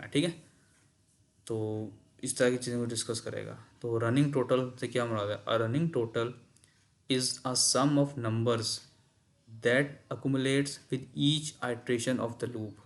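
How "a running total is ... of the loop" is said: slow reading. Shown as a demonstration. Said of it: "reads the definition aloud".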